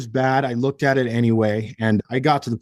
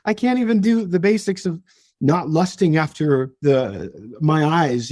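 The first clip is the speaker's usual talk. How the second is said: despairing inner voice; 5 semitones higher than usual. Retold or imitated. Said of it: "I'm like".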